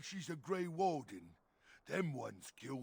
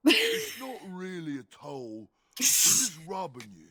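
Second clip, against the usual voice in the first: dumb brute voice; 9 dB louder than usual. Acted. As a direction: bark it like a dim bruiser. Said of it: "Guy does the dumb brute voice so good".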